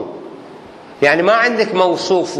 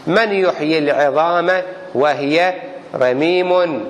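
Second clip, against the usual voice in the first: slow recitation; slower than usual. Shown as a demonstration. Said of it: "قال الله تعالى في كتابه".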